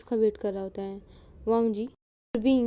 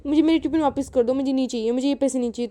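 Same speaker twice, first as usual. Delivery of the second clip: crying; 3 semitones higher, 5 dB louder, faster than usual. Acted. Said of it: "wing रोने लग जाता है".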